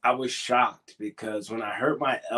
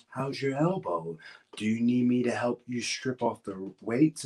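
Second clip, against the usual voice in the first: Lars Sullivan. Retold or imitated. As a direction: impersonate him with deliberate, stretched-out words. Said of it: "That's how he talked".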